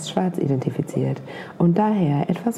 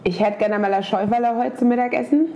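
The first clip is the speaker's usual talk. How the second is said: Franconian accent; 2 semitones higher, faster than usual. Shown as a demonstration. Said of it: "sag uns mal bitte ein sehr fränkisches Wort".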